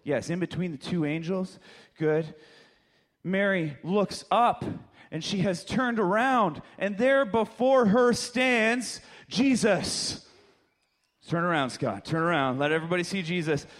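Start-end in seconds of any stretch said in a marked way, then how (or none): 3.2-10.2 slow, building reveal; dramatic storytelling. Acted. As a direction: raise the pitch slowly towards a grand reveal.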